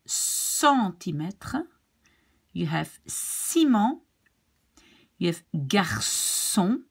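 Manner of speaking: slow "centimètre", "ciment", "garçon" with s sound; French C said as a hissed s. Shown as a demonstration. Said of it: "here we have the S".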